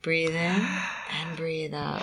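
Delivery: hushed, calming voice; soft and soothing. Real, not acted. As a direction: talk her gently through it. Guiding breath during injection.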